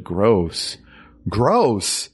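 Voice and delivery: from mutter to squeal of disgust. Retold or imitated. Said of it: "Getting progressively louder".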